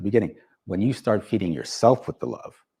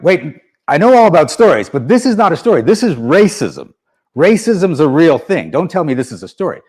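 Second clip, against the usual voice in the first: indignant, much louder protest, slowing on "This is racism"; retold anger; 5 semitones higher, 9 dB louder than usual. Speaker reliving his protest to the coach, heated and loud. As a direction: push back hard, insisting it is real. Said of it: "And I got angry".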